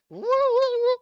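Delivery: very high, loud woo calls; excited shouted woo; loud halt. Real, not acted. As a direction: shout to stop everything. Halting the story excitedly.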